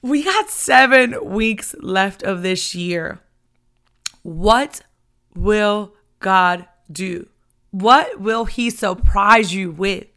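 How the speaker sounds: slow, punched-out preaching; stirred up, leaning hard on each word; loud, emphatic, drawn-out build; fired up. Real, not acted. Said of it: "oh, I'm fired up. I am stirred up".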